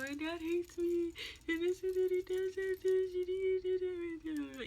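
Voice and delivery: high, drawn-out imitated wail; mock bawling. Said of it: "started bawling out, crying even more".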